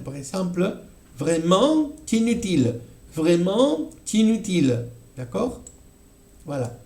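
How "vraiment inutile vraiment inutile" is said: vraiment inutile con liaison, t enlazado: vraimen-tinutile. Shown as a demonstration. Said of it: "tenemos otro caso". (vraiment inutile ligado en liaison)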